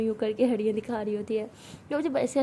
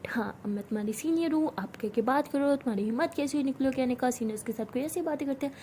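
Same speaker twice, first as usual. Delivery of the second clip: mocking senior's lecture; 3 dB quieter than usual. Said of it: "यही ना?".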